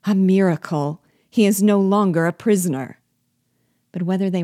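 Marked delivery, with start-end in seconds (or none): 0.0-3.0 raised, louder cry of amazement; surprised exclamation. A narrator's reading. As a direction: exclaim it as a crowd seeing a miracle. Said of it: "exclaimed in tones of surprise".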